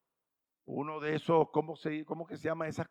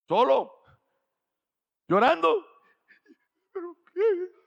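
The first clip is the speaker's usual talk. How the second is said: fervent exclamation; 13 semitones higher, 8 dB louder than usual. Real, not acted. Preacher describes crying while reading.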